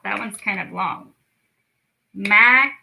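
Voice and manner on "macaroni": Ma-ca-ro-ni louder, beat by beat; clapped syllables. Shown as a demonstration. Teacher clapping out a long word. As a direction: clap each beat of Macaroni. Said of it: "Let's clap that one out".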